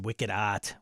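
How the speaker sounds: put-on light Boston accent on the vowels. Host reading Blake's comment with a touch of Boston accent. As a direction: drop the R, Boston style. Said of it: "saying that in his Boston accent".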